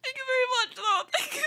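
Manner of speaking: high squeaky voice from a sick throat; duck-like voice. Real, not acted. Streamer sick with covid thanking chat, duck-like voice. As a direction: sound like a duck while thanking. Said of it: "I sound like a fucking duck".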